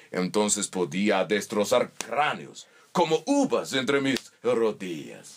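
lento, con un toque ruso; voz pesada del luchador ruso; voz de Zangief. Retold or imitated. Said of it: "empecé a darle tono grave". (Zangief presumiendo, lento y ruso)

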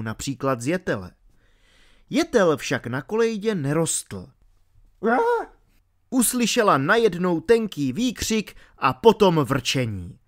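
ordinary delivery

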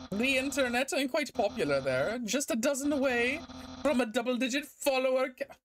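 proud, animated character read; boastful skeleton character. Acted. Voices game character's dialogue.

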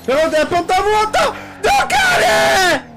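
high, fast excited yelling; excited shout. Real, not acted. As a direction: cry out in excitement. (urla eccitate)

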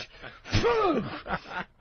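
imitated spraying sneeze noise; mock sneeze. Mimics the sneeze spraying the car.

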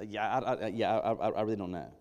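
stammering feigned ignorance. Retold or imitated. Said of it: "he feigns ignorance".

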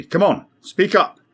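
high, loud and slow, pressing him; impatient urging. A narrator's reading. Captain pressing a silent crewman to talk, impatient. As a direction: drag the words out, fed up with waiting. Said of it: "urged impatiently".

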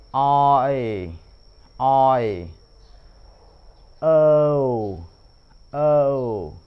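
each diphthong said slowly and clearly, one at a time; slow vowel drill. Shown as a demonstration. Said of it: "chúng ta nên rõ, rõ từ". (đọc chậm, rõ từng nguyên âm đôi)

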